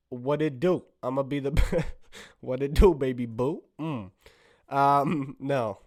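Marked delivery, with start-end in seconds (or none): 0.1-1.9 gangster bear. Acted. Comedian trying a first bear voice, mock gangster. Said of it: "Could be a gangster bear". 2.4-3.6 gangster bear. Acted. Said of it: "Could be a gangster bear".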